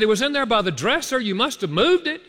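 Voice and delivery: rising accusation. Retold or imitated. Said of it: "Every round I got higher".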